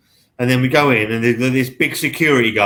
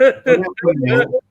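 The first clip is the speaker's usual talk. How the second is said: much higher, slow, rising put-on dopey voice; mock innocent excuse; 11 semitones higher, slower than usual. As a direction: stretch it out like a feeble excuse. Repeats the mock excuse, slower and higher.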